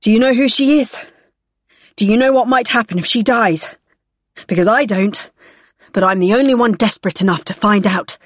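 loud, desperate threat; desperate shout. Acted. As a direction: push it out wildly, close to breaking. Desperate threat holding hostage.

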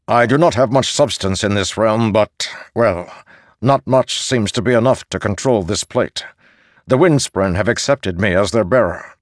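airy, high knight's voice; high spirit voice. Acted. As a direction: speak high and hollow from within a helm. Spirit knight explains his plate.

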